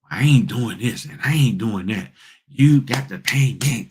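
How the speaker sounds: put-on defiant refusal, drawn out at the end; mock entitled attitude. Newcomer refusing work and demanding pay, mock entitled attitude. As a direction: imitate someone demanding their money. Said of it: "This is the attitude that people come in with".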